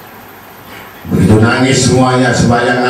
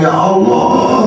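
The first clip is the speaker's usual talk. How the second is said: "ya Allah" voiced higher and slowly stretched; drawn-out lament; 6 semitones higher, slower than usual. Preacher voices a worried sinner drawing out "ya Allah". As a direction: draw "ya Allah" out like a sigh of regret. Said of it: "ada yang satu stres".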